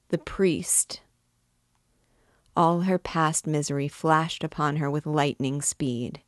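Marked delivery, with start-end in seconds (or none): 0.1-1.0 faint, breathless whisper of dread; feeble whisper. A narrator's reading. Esmeralda waking to the priest, feeble whisper. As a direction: barely breathe the words out. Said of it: "said she in a feeble voice".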